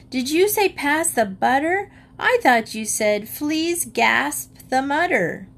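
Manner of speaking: lightly voiced child, high; child mishearing on purpose. A narrator's reading. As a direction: innocent high child asking. Child voice in story.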